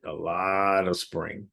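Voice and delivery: slowed-down repeat for emphasis; slow emphatic repeat. Shown as a demonstration. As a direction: say it again, slowly and deliberately.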